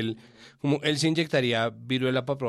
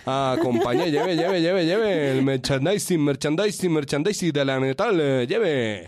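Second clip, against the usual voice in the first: hyped fairground barker. Pretend. Pregonero vendiendo merchandising.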